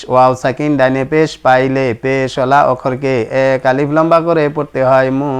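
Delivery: measured sing-song rule recitation; steady classroom recitation; recited rule. Shown as a demonstration. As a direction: recite it evenly like a memorized lesson. Reads the rules aloud again.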